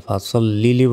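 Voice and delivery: ফাসল্লি লি run together as "fasollili"; wrongly joined words. Shown as a demonstration. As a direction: join ফাসল্লি লি as one word, with heavy "so". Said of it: "বলবেন না".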